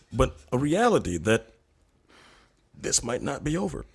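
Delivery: lofty deadpan sage, cracking up now and then; self-important lecture barely holding back laughs; pompous guru persona. Pretend. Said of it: "would you be so kind to go through maybe a little sequence".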